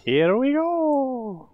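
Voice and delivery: high, slow stretched hype call; drawn-out pumped-up cheer; excited. Real, not acted. Final round starts, hyped.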